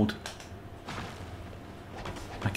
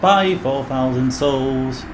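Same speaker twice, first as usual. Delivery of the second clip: dismayed; 4 semitones higher, much slower than usual. Real, not acted. Losing souls by falling.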